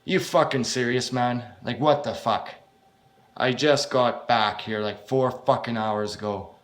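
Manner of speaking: loud, exasperated complaint; indignant protest at being sent out again; annoyed outburst. Acted. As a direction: push back hard, fed up. Annoyed reply to unwanted job.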